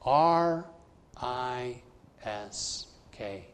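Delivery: each letter R, I, S, K said slowly and apart; spelling out risk. Shown as a demonstration. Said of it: "faith is spelled".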